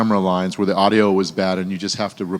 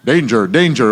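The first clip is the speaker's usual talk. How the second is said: louder retold robot warning; mock robot; 5 dB louder than usual. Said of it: "There's two robot lines. He's just, like, going".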